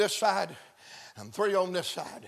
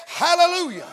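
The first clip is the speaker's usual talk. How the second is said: acted shout of praise; crowd screaming; 9 semitones higher, 7 dB louder than usual. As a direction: cry it out like the crowd. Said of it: "And they're screaming".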